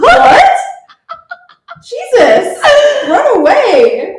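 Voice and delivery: loud, high outburst breaking into laughter; shocked disbelief. Real, not acted. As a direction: blurt it out aghast and laughing. Shocked reaction to the friend's story.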